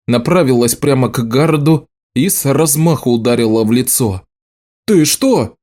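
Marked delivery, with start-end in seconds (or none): 4.9-5.6 sharp startled shout, pitched up; a shocked cry at the slap. A narrator's reading. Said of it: "крикнул Гаррет".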